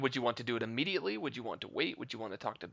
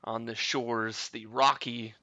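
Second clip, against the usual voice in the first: game master narrating the scene; scene setting narration. A narrator's reading. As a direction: set the scene for the players. GM sets the scene.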